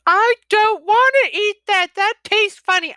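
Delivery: high, loud picky-eater whine; high mock child complaint; whiny kid. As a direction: imitate a child refusing dinner. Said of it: "I still have the".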